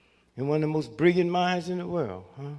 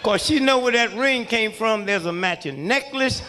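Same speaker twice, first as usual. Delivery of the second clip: loud, higher comic shout; punchline shout; 5 semitones higher, 4 dB louder than usual. Real, not acted. Comic shouting the wife punchline to the crowd, loud. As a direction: hammer the punchline home.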